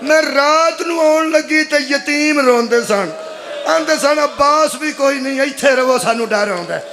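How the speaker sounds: mournful, stretched majlis wail; lamenting preacher. Acted. Sister telling brother of the night guarding orphans, lamenting. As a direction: carry the sister's grief in drawn phrases.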